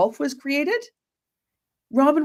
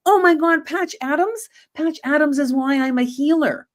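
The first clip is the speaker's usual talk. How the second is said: excited disbelief; 5 semitones higher than usual. Retold or imitated. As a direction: gush about a favourite film. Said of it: "I'm like".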